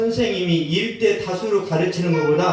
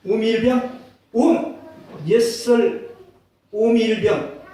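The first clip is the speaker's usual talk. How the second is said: higher teasing call; mocking soldiers; 5 semitones higher, slower than usual. Soldiers jeering at the scabies private, higher teasing call. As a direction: taunt the private with his nickname, raised.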